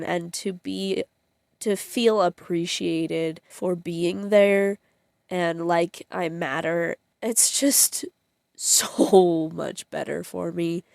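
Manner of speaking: slow, choking up through a teary laugh; fighting back real tears; tearful. Real, not acted. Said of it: "I did not realize that I would cry".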